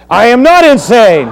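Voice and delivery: high, loud denial through a laugh; hammed-up Paul, laughing; laughing protest. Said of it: "pretending to be Paul".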